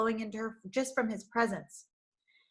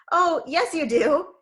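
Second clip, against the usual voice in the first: slow, louder, laughing cheer; cheerful; 7 semitones higher, 8 dB louder, slower than usual. Acted. Shepherd laughing at her refusal, cheerful tease. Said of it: "he said cheerfully".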